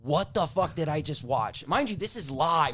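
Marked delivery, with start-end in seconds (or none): 0.0-1.7 slow, stunned retold disbelief; dazed disbelief, word by word; stunned shock. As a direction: say it slowly, as if still in shock. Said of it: "I'm just in, like, shock".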